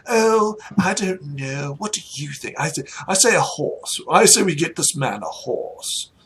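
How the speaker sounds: lightly voiced deliberating lord; mild lordly pondering; noble husband. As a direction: play a husband consulting his darling. Game master voices the husband.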